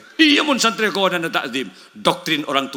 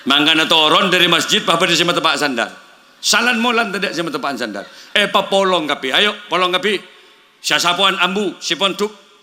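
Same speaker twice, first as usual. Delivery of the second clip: angry scolding; 2 semitones higher than usual. Retold or imitated. Kiai scolds santri over sandals. (omelan kiai yang ditirukan, lebih keras)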